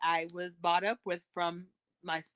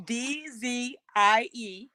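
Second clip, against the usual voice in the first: letters spelled out slowly one by one; slow careful spelling; 4 semitones higher, much slower than usual. Shown as a demonstration. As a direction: spell it slowly so they catch each letter. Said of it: "wait, so one more time".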